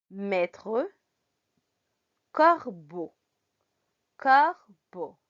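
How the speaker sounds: "Corbeau" in two careful syllables, ending in O; isolated French words, first syllable punched; pronunciation example. Shown as a demonstration. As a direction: model "Maître Corbeau" word by word for beginners. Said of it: "ejemplos de con estas pronunciaciones".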